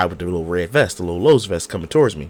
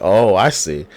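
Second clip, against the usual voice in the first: sarcastic realization; 4 dB louder than usual. Retold or imitated. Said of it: "I'm like".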